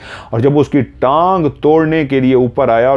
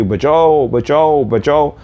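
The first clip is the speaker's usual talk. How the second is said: mock cries for help, pitched up; retold screaming; 5 semitones higher, much slower than usual. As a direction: imitate a frightened wife's screams, half-voiced. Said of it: "फिर चीखें मारना शुरू हो गई". (डरी चीखों की हल्की नकल)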